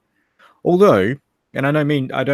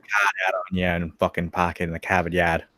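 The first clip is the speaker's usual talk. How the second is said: put-on Boston accent with dropped R's; imitation Bostonian; attempted Boston accent. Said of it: "attempting the Boston accent".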